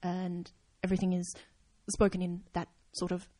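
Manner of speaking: lightly hinted Japanese accent, breathy and halting; hint at a Japanese cadence with halting pauses. Shown as a demonstration. Podcaster showing a friend's tip, understated halting Japanese accent. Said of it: "doing a Japanese accent".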